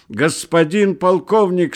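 high, slow, loud eager call; flustered joyful shout. Acted. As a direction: cry out, flustered yet glad. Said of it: "сметенно и в то же время обрадованно закричал".

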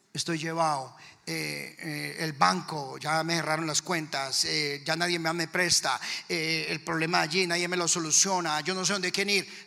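halting mock-defeated complaint; natural man's helpless moan. Man without faith lists debts and closed accounts, mock despondent. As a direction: stumble through your troubles, helplessly. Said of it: "el natural que dice".

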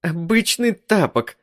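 обычный thrown back high and sneering; wife mimicking her husband scornfully; mocking mimicry. A narrator's reading. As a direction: parrot обычный to ridicule him. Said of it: "передразнила меня Джоан".

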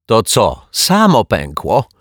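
high, loud incredulous cry; shouting. A narrator's reading. Neighbour challenging the detective's explanation, shouting. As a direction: cry out in disbelief, stretching the end. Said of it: "krzyknęła pani Majewska".

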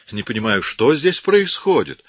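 high, loud and slowed, exasperated; irritated complaint. A narrator's reading. Woman caught intruding, irritated complaint. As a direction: complain sharply, fed up with it all. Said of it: "раздражённо пожаловалась".

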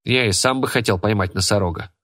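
ordinary delivery

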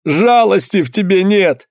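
high, slow, crying reproach; begging man weeping at Anna, high and slow; tearful reproach. A narrator's reading. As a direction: sob out the accusation. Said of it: "Он заплакал".

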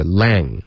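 "lang" with a flat a as in cat; mispronunciation imitation. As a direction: say long as "lang", vowel too front. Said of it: "你现在发的是lang".

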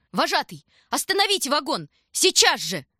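high, loud call toward the cab; shout to the driver. A narrator's reading. Tanya shouting to the tram driver to stop. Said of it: "Она крикнула в сторону кабины".

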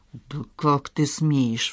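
slow, hushed outrage; flaring indignation. A narrator's reading. Father to insolent son, flaring in hushed indignation. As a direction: hold the anger in, drawing it out. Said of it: "вспыхнул Андрей Павлович".

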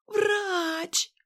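nurse's answer. A narrator's reading. Nurse answers under pressure.

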